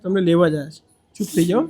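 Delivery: softened, comforting voice; calm them down quietly; reassuring. Real, not acted. Man promises he came to take her, reassuring.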